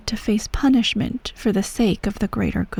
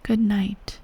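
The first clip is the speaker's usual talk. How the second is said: soft, hushed bedtime farewell; tender goodnight; 4 dB quieter than usual. Acted. Empress bidding her little soldier good night, tenderly hushed. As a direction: lull a child gently to sleep.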